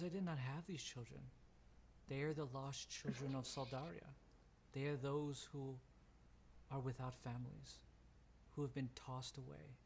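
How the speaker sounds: measured, solemn alien guardian, lightly played; a hint of a serene cave mother, pausing between phrases; lightly voiced Mother figure. Mother explaining the lost children, lightly solemn.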